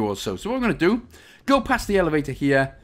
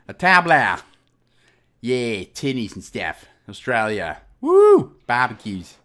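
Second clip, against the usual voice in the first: badly faked Australian accent with a whoop; crappy Australian accent; 4 semitones lower, 3 dB louder, slower than usual. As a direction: ham up a terrible Aussie accent. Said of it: "crappiest Australian accent in the world".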